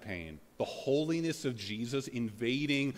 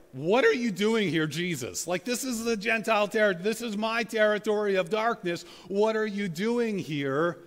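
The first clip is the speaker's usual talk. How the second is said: much higher and louder, demanding; demon's indignant protest; 8 semitones higher, 5 dB louder than usual. Retold or imitated. Demon protesting Jesus entering his territory, loud high indignant voice. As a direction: confront the intruder, loud and high-pitched. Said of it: "he's like".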